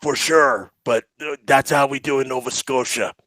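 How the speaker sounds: put-on light Nova Scotia accent; Colin. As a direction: imitate a player with Nova Scotia vowels. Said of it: "Throwing in the, uh, pronunciations there".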